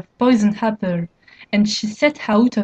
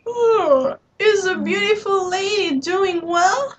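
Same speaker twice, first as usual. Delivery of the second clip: anxious; 9 semitones higher, slower than usual. Acted. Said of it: "very anxious".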